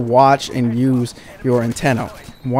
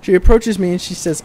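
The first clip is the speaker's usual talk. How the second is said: higher and more lively retell of the same line; more animated retake; 5 semitones higher, 3 dB louder than usual. Shown as a demonstration. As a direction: say it again with more energy. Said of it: "Let me give you some more visual once again".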